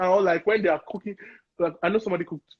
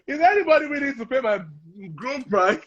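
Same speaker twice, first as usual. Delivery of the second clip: mock crying laugh; 4 semitones higher than usual. Mock crying over groom price.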